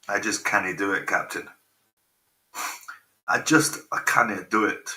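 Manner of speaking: lightly put-on Scottish accent; a touch of Scottish brogue. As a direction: do a mild Scottish starship engineer. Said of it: "That's my Scottish accent".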